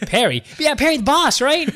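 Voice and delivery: high, giggly mock request; laughing through words. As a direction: barely get the joke out while laughing. Joking request while cracking up.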